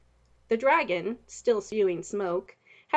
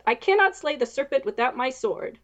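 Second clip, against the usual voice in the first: a raised, higher knight's shout; 5 semitones higher, 5 dB louder than usual. Acted. Knight shouting over the wind, no sword. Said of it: "he shouted over the roar of the wind".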